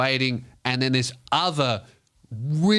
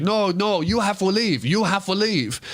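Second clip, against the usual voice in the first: bouncer; 6 semitones higher than usual. Retold or imitated. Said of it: "and the guy's like".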